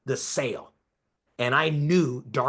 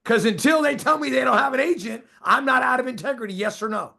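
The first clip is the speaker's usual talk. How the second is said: emphatic raised voice; 8 semitones higher, 4 dB louder than usual. Real, not acted. Pressing point to audience.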